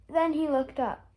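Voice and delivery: ordinary delivery, nothing marked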